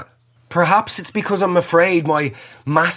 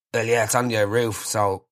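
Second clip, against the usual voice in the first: unimpressed installer; 3 semitones lower, 5 dB quieter than usual. Retold or imitated. Installer deadpan.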